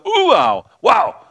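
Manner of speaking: high, loud squealing wow; thrilled high-pitched wow; excited baby squeal. Pretend. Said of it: "John the Baptist is going".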